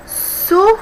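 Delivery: su... PÉR-fluo, with a long gap after su; syllable by syllable. Shown as a demonstration. Teacher writing out supérfluo, syllable by syllable. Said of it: "três sílabas".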